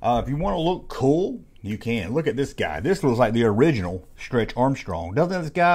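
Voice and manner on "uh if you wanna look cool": high, goofy put-on voice reading the ad; mock ad voice. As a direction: bounce it up like a silly old comic ad. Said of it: "it's like".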